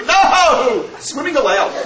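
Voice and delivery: regrouped so "Swimming allowed" sounds like one command; laughing reread. Retold or imitated. Teacher retelling his joke to the guard, laughing through it. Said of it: "I read it differently".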